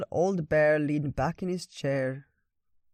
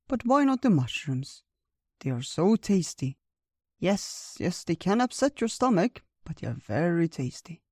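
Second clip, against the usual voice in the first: higher, lilting bear voice; coaxing old bear; 3 semitones higher than usual. Acted. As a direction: talk up the tasty food, swooping in pitch.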